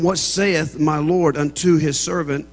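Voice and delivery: slow, measured Bible reading; scripture reading. A narrator's reading. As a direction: read the verse solemnly, spacing out phrases. Reads scripture aloud to congregation.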